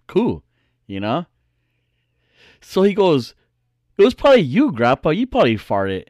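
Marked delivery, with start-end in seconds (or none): 4.0-6.1 brother accusing. Retold or imitated. Brother accusing grandpa in story.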